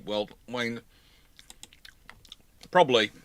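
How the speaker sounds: ordinary talk, nothing marked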